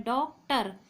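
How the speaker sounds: "डॉक्टर" split in two, one part stressed; syllable stress. Shown as a demonstration. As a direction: stress one syllable of "डॉक्टर", saying both parts distinctly. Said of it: "एक part में ज़्यादा stress दिया जा रहा है". ("डॉक्टर" को दो हिस्सों में, एक पर ज़ोर देकर)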